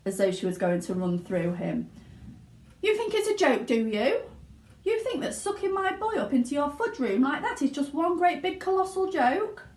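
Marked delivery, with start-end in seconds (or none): 2.8-9.7 high furious accusation. A narrator's reading. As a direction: accuse him in rage. Enraged mother accuses Wonka.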